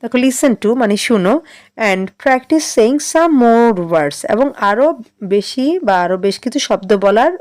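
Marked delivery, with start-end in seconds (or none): 1.9-4.2 very slow, word by word; slow dictation for class six; broken into chunks. Shown as a demonstration. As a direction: read it out slowly, piece by piece. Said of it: "একটু ভেঙে ভেঙে বলবো".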